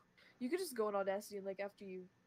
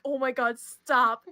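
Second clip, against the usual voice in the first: mock panicked shout; 3 semitones higher, 16 dB louder, slower than usual. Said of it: "they're like".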